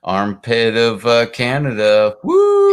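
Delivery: rowdy toast ending in a whoop; toast cheer. Real, not acted. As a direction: call it out like a drinking toast. Drinking toast chant.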